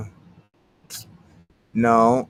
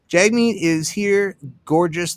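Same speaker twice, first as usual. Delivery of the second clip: mock announcer; 5 semitones higher, 5 dB louder, slower than usual. Mock announcing Jagmeet's arrival.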